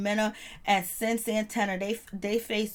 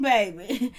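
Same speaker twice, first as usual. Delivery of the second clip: hyped reaction; slower than usual. Retold or imitated. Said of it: "I was like".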